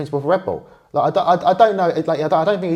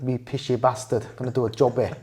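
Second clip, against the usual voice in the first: mock Scottish accent; 2 semitones lower, 5 dB quieter than usual. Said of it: "your Scottish accent".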